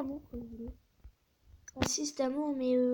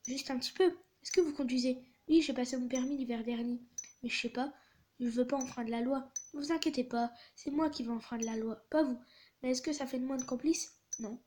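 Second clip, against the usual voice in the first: animated reading of a text exchange; story read-aloud. A narrator's reading. Delivery driver texting customer Francesca, animated story reading. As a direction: read out both sides with lively acting.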